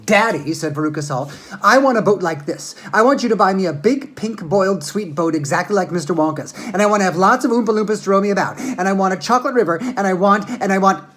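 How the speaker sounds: put-on spoiled demanding girl.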